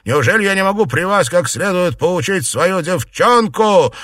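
high, loud indignant demand; old aunt loudly indignant; indignant retort. A narrator's reading. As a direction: defend your right to beat her. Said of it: "оборвала её старуха".

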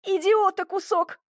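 high, furious yell at him; shrill outraged cry; yelled curse. A narrator's reading. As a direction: scream the insult across the forest. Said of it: "завопила я на весь лес".

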